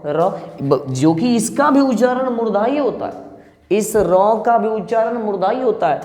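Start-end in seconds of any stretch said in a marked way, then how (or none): 0.1-0.3 र with a light tap, no jerk; light tapped र. Shown as a demonstration. Teacher contrasting thin र with jerked ड़. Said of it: "लेकिन अगर आप बोलते हैं र".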